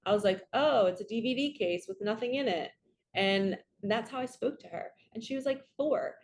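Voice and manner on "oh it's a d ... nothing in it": sarcastic. Retold or imitated. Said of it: "And I was so sarcastic".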